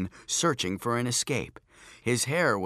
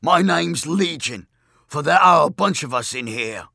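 demon voice; 4 semitones higher, 8 dB louder than usual. A narrator's reading. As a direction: growl out the demon name. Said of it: "demon speaks".

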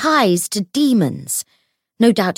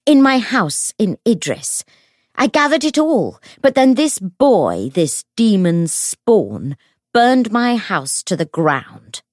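high, loud, drawn-out tirade; furious accusation; 3 semitones higher, 7 dB louder than usual. A narrator's reading. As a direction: denounce him slowly, weighting each phrase. Enraged woman accusing before a crowd.

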